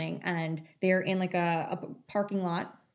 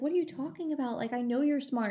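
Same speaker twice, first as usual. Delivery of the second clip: lightly imitated mother, pitched higher; protesting mom; 5 semitones higher than usual. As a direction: retell a mom's protest with a lifted voice. Mom protesting to daughter, retold.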